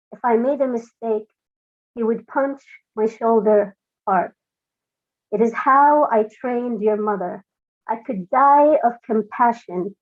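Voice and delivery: measured, deliberate poem reading; poetry reading. Acted. Reads her own poem.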